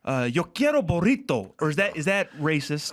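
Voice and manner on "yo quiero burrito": lightly put-on Spanish accent. Shown as a demonstration. Co-host asking how to order a burrito, Spanish accent. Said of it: "Is it racist to do the accent?".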